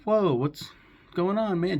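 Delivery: acted surprise. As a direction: play the startled buddy. Friends greet returning Finn in retelling.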